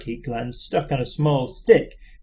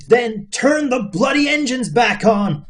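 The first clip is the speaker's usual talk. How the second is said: bawling Zaphod; 7 semitones higher than usual. A narrator's reading. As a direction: bawl it in panic. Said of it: "bawled Zaphod".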